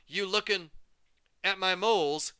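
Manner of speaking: high, loud teasing call; jovial shout. A narrator's reading. Mover John teasing the staring girl, loud and jovial. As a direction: tease her loudly. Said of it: "he shouted".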